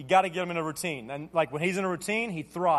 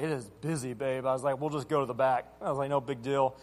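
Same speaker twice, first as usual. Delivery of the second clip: soft reassuring aside; 8 semitones lower, 6 dB quieter than usual. Retold or imitated.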